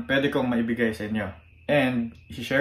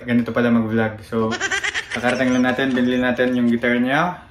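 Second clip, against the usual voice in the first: laughing; 7 dB louder than usual. Real, not acted. Laughs at his own tiredness.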